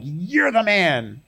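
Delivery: slow, accusing "You're the man."; judgmental. Retold or imitated. Mock judgmental Nathan accusing David, slowly. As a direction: point the finger and drag out "You're the man.". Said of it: "in a judgmental".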